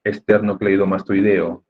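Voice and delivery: "Esternocleidomastoideo" slowly, in careful parts; careful, measured "Esternocleidomastoideo". Shown as a demonstration. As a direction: take "Esternocleidomastoideo" slowly, chunk by chunk. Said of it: "la pronuncio por partes".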